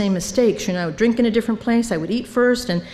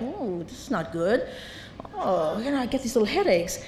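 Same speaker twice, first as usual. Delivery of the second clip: quiet whimper; 8 dB quieter than usual. Retold or imitated. Inner voice craving a Hershey bar.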